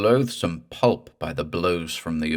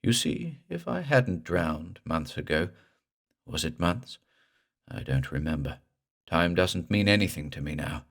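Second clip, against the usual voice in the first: drowned ghost. Acted. Drowned ghost Pete Leroy speaks.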